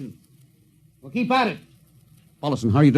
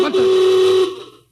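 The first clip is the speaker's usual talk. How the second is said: louder and higher, breaking off in shock; startled; 14 semitones higher, 6 dB louder than usual. Acted. Captain toasting when the alarm cuts in, startled. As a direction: jolt from cheer into alarm.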